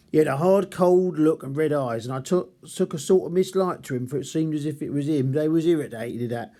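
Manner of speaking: lightly put-on Cockney zookeeper voice; a hint of a Cockney working-class zookeeper; Cockney accent reading. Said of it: "London kind of Cockney accent".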